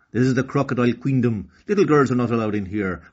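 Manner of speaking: put-on a guard grumbles at a little girl, loud and fast; grumbling guard. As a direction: shoo her away impatiently. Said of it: "grumbled the second guard".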